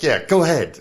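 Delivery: loud, high sarcastic dare; scoffing disbelief. Retold or imitated. Traveler humors the driver, scoffing disbelief. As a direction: wave him on loudly, not believing a word. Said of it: "knowing, like, that's never gonna fucking happen".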